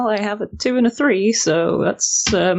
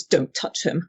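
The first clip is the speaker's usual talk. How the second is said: understated threat, no raised voice; venomous; slower than usual. Acted. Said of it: "say with venom in my voice".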